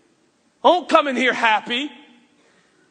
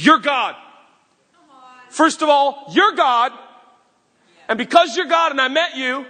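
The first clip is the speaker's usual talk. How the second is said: joyful declaration; 3 semitones higher than usual. Acted. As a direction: proclaim it with bursting faith. Zacchaeus's joyful announcement.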